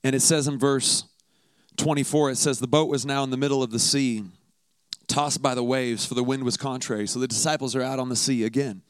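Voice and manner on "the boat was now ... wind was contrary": measured, lowered reading voice; scripture reading. Acted. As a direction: read the Gospel steadily, like a lesson from the pulpit. Reads the Gospel passage aloud.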